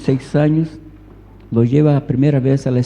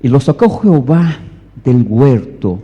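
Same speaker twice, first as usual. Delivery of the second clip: loud, emphatic Bible reading; forceful scripture reading; 5 dB louder than usual. Real, not acted. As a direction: proclaim the verse to the congregation. Reads scripture aloud forcefully.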